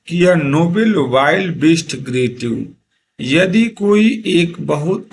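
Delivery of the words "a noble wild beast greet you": very slow, words spaced apart; slow poem quote. Shown as a demonstration. Teacher re-reading a poem line for students, very slow. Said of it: "वहाँ पे बताया जा रहा है".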